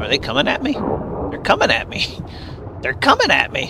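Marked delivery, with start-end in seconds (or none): 1.3-3.7 excited panic. Real, not acted. Enemies attacking, excited.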